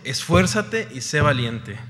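esfuérzate y sé valiente, each word slow and weighty; slow firm command. Real, not acted. Preacher repeating God's command, slow and firm. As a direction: lay down God's order slowly.

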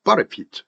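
"but it" run together as "ba-re-pit"; linked pronunciation. Shown as a demonstration. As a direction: link "but it" into one light unit. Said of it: "이렇게 발음을 하죠".

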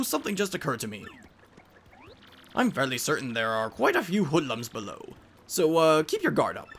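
scholarly professor giving directions; professor guide. Acted. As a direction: caution the party like a mentor.

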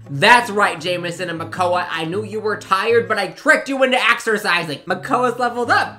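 gleeful gloating. Real, not acted. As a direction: crow over the trick, loud. Gloating over tricking sims.

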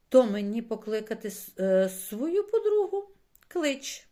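high, loud happy exclamation; joyful. A narrator's reading. Чорник welcomes a friend joining the ride, joyful. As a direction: pipe up eagerly, pitch jumping high. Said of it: "радісно промовив чорник".

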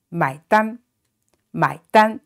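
买单 at normal pace; normal speed. Shown as a demonstration. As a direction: say 买单 at everyday speed. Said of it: "Normal speed".

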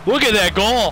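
thrilled shout over a goal; excited cheer. Real, not acted. Celebrating a goal.

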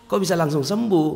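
high astonished question; surprised. Real, not acted. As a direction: ask it in sheer disbelief. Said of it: "Kaget saya".

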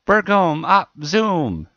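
slow, high, loud screech of Bergom op Zoom. A narrator's reading. Little girl running at the cows screeches, high and loud. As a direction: shriek Bergom op Zoom as a war cry. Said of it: "waving a stick and screeching".

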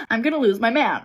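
laughing through "I'm gonna lose my man". Acted. Fretting to viewers about losing her man, laughing. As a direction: say it again with a laugh breaking in.

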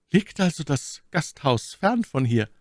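hoch gesprochene Mylady, misstrauisch. A narrator's reading. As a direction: als misstrauische Lady, deutlich höher. Voiced Milady. (Mylady fragt den Offizier misstrauisch, hohe Stimme)

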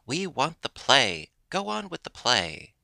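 high, insistent crowd demand; narrated shout, pitched well up; impatient shout. A narrator's reading. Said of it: "became impatient and began to shout".

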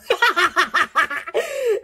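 high-pitched burst of real laughter. Real, not acted. Admitting she can't afford a big party, real laughter. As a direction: crack up at your own remark.

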